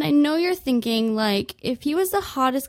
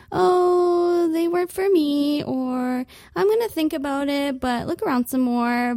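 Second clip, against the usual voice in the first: higher, polite brush-off; polite excuse; 4 semitones higher than usual. Retold or imitated. Customer politely declining to the clerk, higher and breezy. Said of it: "we always wanna say something like".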